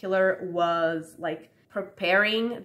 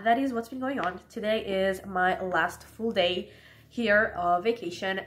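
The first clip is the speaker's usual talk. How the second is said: stuffy allergy voice; a bit congested from allergies. Real, not acted. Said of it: "if I sound, like, sick, it's because my allergies are acting up".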